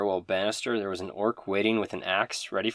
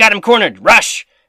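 shrill, full-volume, very high shout; 13 semitones higher, 16 dB louder than usual. Voicing a character who sneaks upstairs and calls out: shouting. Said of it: "And then he shouts".

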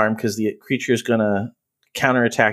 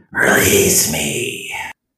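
eerie, creepy whisper, very low pitch; 7 semitones lower than usual. Narrating a game, the storyteller voices a cornered beast pleading in a very creepy whisper. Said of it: "he whispers in a very creepy voice".

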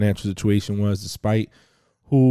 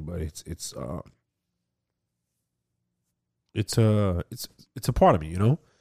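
emotional, halting delivery with stammering repeats; 4 dB quieter than usual. Speaker apologizes to listeners while telling a story, emotional. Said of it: "I'm getting emotional".

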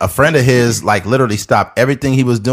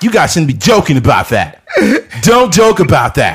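put-on high, swooping, irate, indignant scolding; 6 semitones higher, 4 dB louder than usual. Imitating an offended listener complaining about the jokes: imitating an irate listener. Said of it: "somebody right now that is irate".

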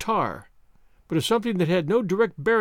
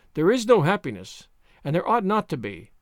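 ordinary delivery

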